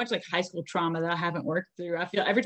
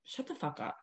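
a sudden low, soft aside; mock muttered retort; 6 semitones lower, 13 dB quieter than usual. Muttering back at catty classmates under her breath. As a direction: drop it under your breath.

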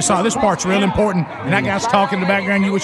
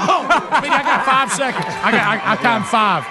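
excited, laughing; 3 semitones higher than usual. Real, not acted. Excited after ride, laughing.

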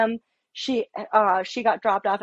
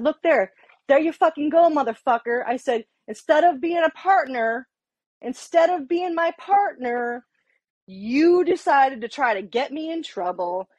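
retold angry outburst, pitched up; heated and amped up; 4 semitones higher than usual. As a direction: throw the proof back, all worked up. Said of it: "Now I'm all heated up and amped up".

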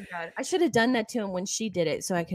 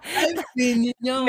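put-on country accent; 4 semitones higher than usual. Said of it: "With her country accent".

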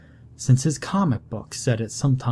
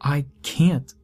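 tearful pleading; 4 semitones higher than usual. Acted. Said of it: "Tears began to roll".

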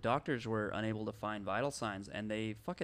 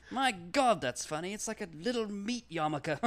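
loud, high, laughing; laughing doctor; 9 semitones higher, 10 dB louder than usual. Pretend. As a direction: cackle at the gruesome joke.

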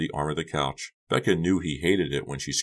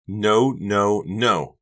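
panicked; 5 semitones higher, 6 dB louder, much slower than usual. A narrator's reading. Panicked inner cry of no.

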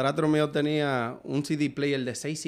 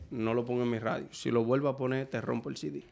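imitating a stern stepfather; 6 semitones lower, 7 dB quieter than usual. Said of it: "te lo dije la última vez".

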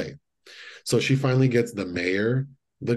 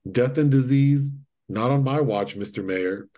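mock heroic line; 4 semitones higher than usual. Friend quoting Faye Dunaway's line with mock grandeur. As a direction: punch it out like a movie heroine. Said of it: "this line is".

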